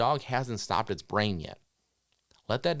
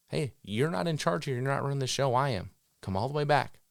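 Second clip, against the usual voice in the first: higher, commanding voice to the dog; a hint of a stern handler; firm handler; 5 semitones higher than usual. Shown as a demonstration. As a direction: tell the dog who is boss. Handler asserting control over dog.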